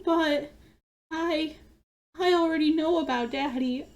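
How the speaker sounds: a kid bravely admitting bad news; lightly voiced sad little girl; sad child voice.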